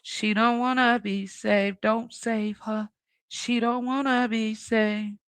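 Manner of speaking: slow, deliberate, every word spaced; firm warning. Real, not acted. Warning her friend off rescuing the woman, slow and firm. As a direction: lay it down slow so it sinks in.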